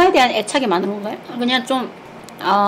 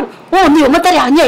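louder, higher mock mother retort; mom answering back; 5 semitones higher, 6 dB louder than usual. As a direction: play mom snapping back at her daughter. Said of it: "이러". (엄마 흉내, 더 크게 받아치며)

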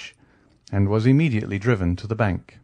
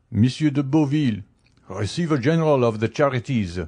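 higher-pitched servant's announcement; valet announcing; 4 semitones higher than usual. A narrator's reading. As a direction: announce a visitor formally, pitch raised. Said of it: "the valet de chambre announced".

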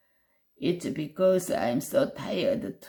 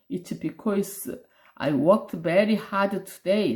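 tiger's excuse; 3 dB louder, much slower than usual. Acted. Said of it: "said the tiger".

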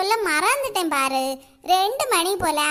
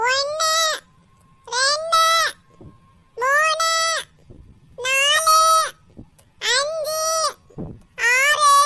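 calling out numbers one by one, a touch raised; 4 semitones higher, much slower than usual. Acted. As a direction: count aloud so everyone hears. Child counting in hide-and-seek.

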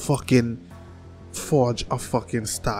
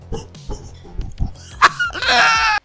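loud, high burst of mock laughter; high wild cackle; 4 dB louder than usual. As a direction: erupt into a shrieky laugh. Burst of noise before starting.

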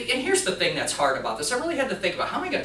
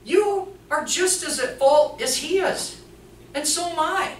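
high, loud firm call to stop; stopping the yelling; 13 semitones higher, 5 dB louder, much slower than usual. Retold or imitated. Teller halting the nurses' quarrel, loud and high. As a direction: cut the quarrel off firmly. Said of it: "I'm like".

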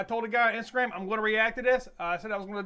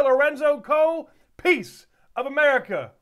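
louder, show-host announcement of "Lorenzo Cole, Piece of America"; announcing the title; 3 dB louder than usual. Real, not acted. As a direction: present "Piece of America" like an emcee introducing it. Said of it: "and here we go".

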